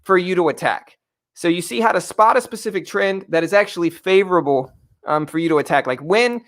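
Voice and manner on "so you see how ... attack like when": breathless after push-ups, catching breath; winded, talking between breaths. Real, not acted. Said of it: "I'm catching my breath".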